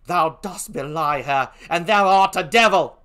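put-on British accent, indignant; Emilia. Gentlewoman defends her mistress, fiercely in a British accent. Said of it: "please forgive my poor British accent".

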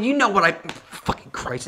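mock Neil, swallowing the swear under his breath; imitating Neil. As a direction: Neil grumbling off as he walks out. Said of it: "Neil's like".

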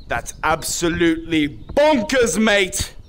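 slow, emphatic, in full voice; voiced, leisurely mock amazement; drawn-out disbelief. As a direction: stretch out each word, landing on bonkers. Same reaction repeated out loud.

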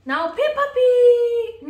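loud, slow crying wail. Real, not acted. Upset child demanding the Peppa Pig toy, crying loudly. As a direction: wail the words out through real tears.

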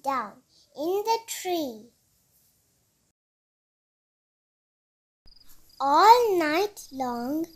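gentle storybook reading voice; reading to children. A narrator's reading. Reading picture book aloud.

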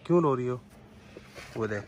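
put-on soft, tender question to a crying child; softly coaxing a little girl to say why she cries; gentle asking. Shown as a demonstration. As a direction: ask it lovingly, quietly. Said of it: "प्यार से पूछो ना".

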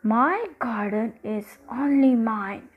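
slow, lightly voiced stern giant; possessive giant. Giant claiming his garden, mildly stern and slow. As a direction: declare it slowly, like a possessive giant. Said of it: "said the giant".

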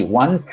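"want" con una T final añadida y forzada. Shown as a demonstration. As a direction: force an extra T onto the end of "want". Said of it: "Suena muy raro, suena muy forzado". ("want" con la T final forzada)

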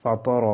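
ফা ত র with a thick, emphatic Arabic T on ত; heavy ত. Shown as a demonstration. Teacher corrects students' reading, heavy T in ফা ত র. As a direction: make the ত in ফা ত র full and heavy. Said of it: "ত মোটা হবে".

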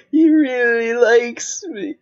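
very high, squealing put-on gush; mock gushing. Player teases a friend about being liked, mock gushing.

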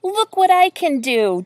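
loud, high show-off call. A narrator's reading. Duck on one leg to the others, calling out. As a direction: call out proudly for attention. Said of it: "Duffel called as he stood on one leg".

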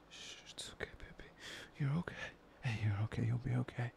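hushed soothing coo; calm her like a frightened animal; cooing to a scared pet. Acted. Soothing captive who is crying.

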